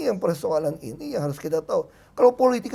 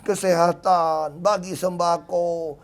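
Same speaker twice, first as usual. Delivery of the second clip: slow advice quote; 3 semitones lower, much slower than usual. Retold or imitated. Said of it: "yang senior bilang gini sama saya".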